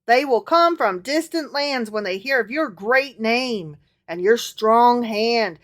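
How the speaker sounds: put-on lightly done Southern accent as Solomon. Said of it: "Solomon continued in his southern accent".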